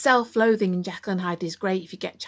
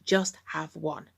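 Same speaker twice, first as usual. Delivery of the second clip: softer, slow coaxing; softly coaxing inner voice, slow; addict's catchphrase; 3 semitones lower, 5 dB quieter, slower than usual. Retold or imitated. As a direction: murmur it slowly like a temptation. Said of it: "And mine is".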